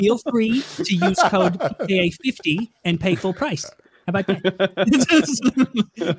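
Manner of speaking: ad read in a Jewish accent, laughing; slow, laughing Jewish accent ad read. Shown as a demonstration. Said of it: "do the ad read in a Jewish accent now".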